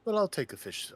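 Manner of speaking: jumps in high and loud with a burst of eagerness; eager acceptance. Acted. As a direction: snap up the offer gladly. Player eagerly accepts the offer.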